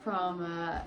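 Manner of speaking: breathless from cleaning the freezer; puffing after scrubbing; out of breath. Real, not acted. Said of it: "I'm actually out of breath".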